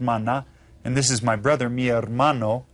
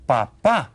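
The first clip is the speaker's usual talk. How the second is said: papá with the stress on its final pá; stress on second syllable. Shown as a demonstration. Teacher showing learners the accent in papá, stress on second syllable. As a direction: lean on the last syllable of papá. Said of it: "You stress the second syllable".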